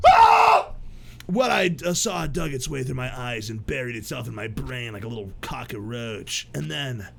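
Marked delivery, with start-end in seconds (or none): 0.1-0.7 short, high, loud acted scream. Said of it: "I realize that I was screaming". 1.9-7.1 low, brooding narrator voice; story narration. Acted. Reads the protagonist's narration.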